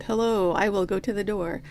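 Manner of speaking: lightly imitated bad American accent; a bad fake American accent, barely done. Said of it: "He does a really bad fake American accent".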